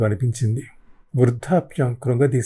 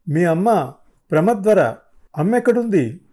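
louder, rising higher to a cry; desperate pressing; 6 semitones higher, 3 dB louder than usual. Acted. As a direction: push the question up in desperation.

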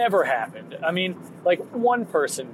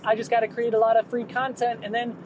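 naive dreamer voice; 7 semitones higher than usual. Retold or imitated. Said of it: "I was like".

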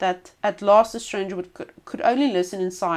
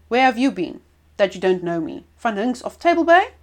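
indignant pirate; 2 semitones higher, 6 dB louder than usual. Acted. Old pirate to the stranger, loud and indignant. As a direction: puff up with wounded pride.

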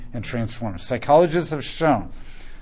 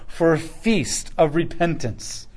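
voice of God calling; 2 semitones higher, 4 dB louder than usual. Retold or imitated. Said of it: "God says".

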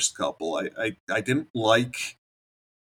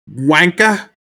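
mock British insult; 8 semitones higher, 11 dB louder than usual. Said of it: "definitely has a British accent".

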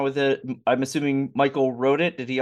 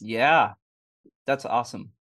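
chewing ice. Real, not acted. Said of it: "Sorry, I'm chewing on an ice cube".

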